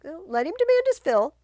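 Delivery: high, loud lofty tone; indulgent king. Acted. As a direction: let him rage, says the king.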